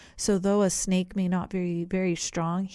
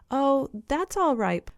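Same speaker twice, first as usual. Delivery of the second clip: slow, polite and higher; 7 semitones higher, 4 dB louder than usual. A narrator's reading. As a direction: answer politely and unhurried. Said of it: "politely answered the rhinoceros".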